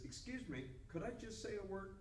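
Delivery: tentative interjection. Acted. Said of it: "raises his hand and says".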